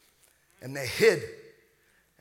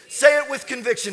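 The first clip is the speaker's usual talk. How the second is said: loud, raised pulpit command; rallying preacher; 8 semitones higher, 9 dB louder than usual. Real, not acted. Preacher urging congregation to declare it, loud and fervent. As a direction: call it out to get the crowd responding. Rallies congregation in call and response.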